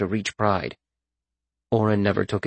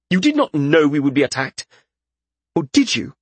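high-pitched, accusing question; high lordling voice, challenging; suspicious young lord; 5 semitones higher than usual. A narrator's reading. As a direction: probe with rising suspicion. Young lord suspects Reskin.

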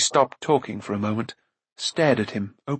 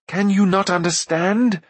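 raised-pitch acted appeal; pleading; 7 semitones higher than usual. A narrator's reading. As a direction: implore her to see sense. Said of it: "he pleaded".

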